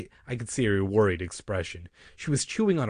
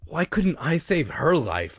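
frustrated, higher self-questioning; angry; 7 semitones higher, 3 dB louder than usual. A narrator's reading. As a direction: complain slowly to yourself. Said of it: "I asked myself angrily".

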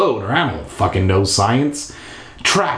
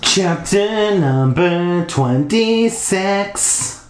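dramatic announcer voice; 7 semitones higher, much slower than usual. Acted. Mock dramatic chapter announcement.

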